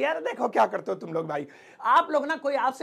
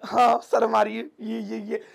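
shy speaker; 5 dB louder than usual. Retold or imitated. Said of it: "शर्मा से जाते हैं".

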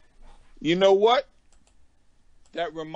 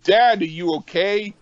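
high-pitched worried question; acted concern; 7 semitones higher, 4 dB louder than usual. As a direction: imitate an anxious son checking on him. Acted worried son checking on dad.

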